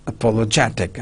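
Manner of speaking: a-POL-o-GET-ic; "apologetic" with stresses on POL and GET; double word stress. Shown as a demonstration. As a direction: model both stressed syllables of apologetic. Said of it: "There are two stress".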